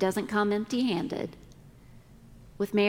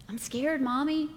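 put-on whiny child; 5 semitones higher than usual. Son voiced, pleading rise.

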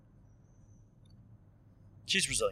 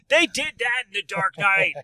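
slow, louder mock exclamation; excited outburst; 6 semitones higher, 5 dB louder, slower than usual. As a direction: blurt it out excitedly.

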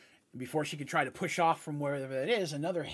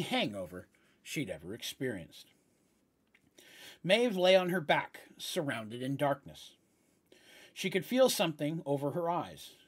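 story narration. A narrator's reading. Game master reading the opening scene to players, story narration.

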